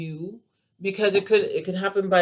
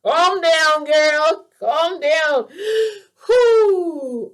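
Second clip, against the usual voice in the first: high, loud, laughing self-talk; telling herself to calm down through laughter; real laughter, catching her breath; 9 dB louder, much slower than usual. Real, not acted. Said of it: "give me a second".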